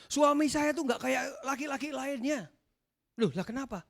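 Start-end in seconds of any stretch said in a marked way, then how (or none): 0.1-2.5 lightly voiced wife grumbling about husband; a hint of mock grievance; complaining wife. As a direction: mimic a wife's complaint, slightly raised. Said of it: "istri-istri yang bilang".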